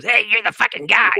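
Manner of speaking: high mock accusing call; imitated confrontation. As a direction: call him out, imitating an irked singer. Singer confronts him in retold story.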